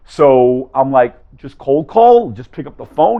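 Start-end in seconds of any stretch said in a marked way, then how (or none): 1.4-3.2 high, rising disbelieving question; ungläubige Frage. Retold or imitated. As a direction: ask it as if you can't believe the advice. Asks professor in disbelief.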